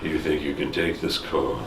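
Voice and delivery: low, quiet tough-guy voice; gruff action hero. Pretend. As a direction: growl it like an action star. Fast and Furious parody.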